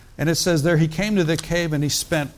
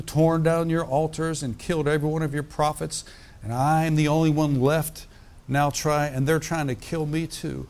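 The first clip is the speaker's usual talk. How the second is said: scripture reading. Acted. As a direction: lift the passage from the page like a preacher. Preacher reads scripture aloud.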